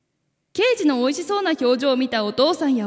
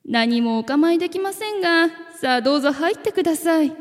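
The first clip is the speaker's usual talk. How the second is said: overly friendly voice; 4 semitones higher than usual. Acted. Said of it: "いつになく愛想のいい声を出しながら".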